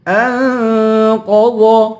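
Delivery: انقض with a long nasal ن; ikhfa, heavy letters. Shown as a demonstration. Teacher showing ikhfa, انقض very slowly nasalised. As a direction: hum the ن in انقض, then thick ق and ض. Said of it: "ان پہ اخفا کریں گے".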